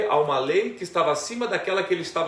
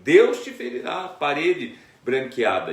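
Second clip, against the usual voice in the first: angry rebuke; 5 dB louder, slower than usual. Retold or imitated. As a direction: hurl the curse back at the priest. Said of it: "mas você vê que ele tá ali até irado".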